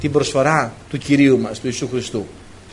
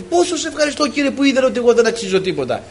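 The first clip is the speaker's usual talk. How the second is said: retold tearful prayer; 7 semitones higher than usual. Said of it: "Και να κλαίω".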